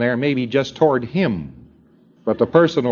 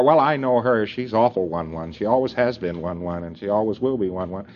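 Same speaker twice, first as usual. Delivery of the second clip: low, mocking voice of a know-it-all; dismissive gossip; 5 semitones lower, 4 dB quieter than usual. Auditor gossiping about a pre-clear, low and dismissive. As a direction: lightly voice someone writing her off.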